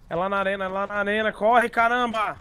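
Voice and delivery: urgent shouting while running; rushing to the arena under pressure; being chased. Real, not acted. Running to the arena, timer ending. (correndo com pressa, gritando)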